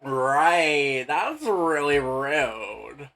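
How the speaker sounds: put-on loud, very slow valley girl pout. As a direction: stretch it out like an offended airhead. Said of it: "that right was actually, like, pretty good".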